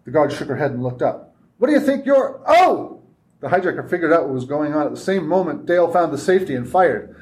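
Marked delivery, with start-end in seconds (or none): 1.6-3.0 high startled cry cut off. Acted. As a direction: jolt of surprise mid-question. Guard startled mid-sentence.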